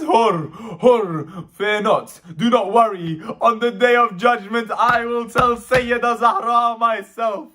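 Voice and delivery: loud, lamenting plea, easing gradually; Zainab's fervent reassurance. Acted. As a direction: proclaim forgiveness through grief.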